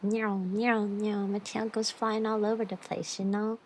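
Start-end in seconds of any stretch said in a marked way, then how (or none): 0.0-1.3 playful meow. Pretend. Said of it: "my tail wag like".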